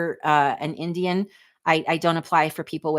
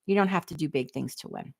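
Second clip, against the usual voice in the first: softer, driving the point home; quiet repeat; 5 dB quieter than usual. Shown as a demonstration. Repeating her point softer to viewers. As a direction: let it sink in gently. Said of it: "It's like, you don't have to do big things to win".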